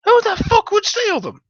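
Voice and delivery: very high, strained, outraged squeal; squeaky outraged stoner. Retold or imitated.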